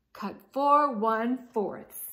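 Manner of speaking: loud grumpy command; fed-up order. Acted. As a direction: bark it out. Al grumbling order.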